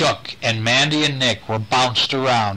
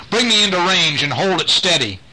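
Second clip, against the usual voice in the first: barking orders; 6 semitones higher than usual. Acted. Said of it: "began barking orders".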